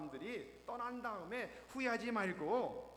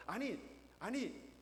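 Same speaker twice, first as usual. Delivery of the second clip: a bit higher, flustered correction; flustered grandpa; 4 semitones higher, slower than usual. Retold or imitated. Grandpa corrects his wife on the quiz show, flustered. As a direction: hurriedly correct her, a little higher. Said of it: "당황한 ... 할아버지가".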